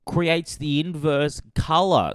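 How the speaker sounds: high, loud mock gasp of discovery; overdone dawning horror; mock alarmed heroine. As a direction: ham up her sudden realization. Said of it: "And she's like".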